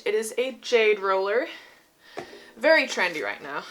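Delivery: winded, out of breath. Real, not acted. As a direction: talk while catching your breath. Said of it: "Sorry, I'm so out of breath".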